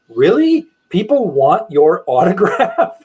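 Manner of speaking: high, loud disbelief from mom; incredulous mom. Retold or imitated. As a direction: act out a mother's astonished doubt. Mom surprised he signs autographs.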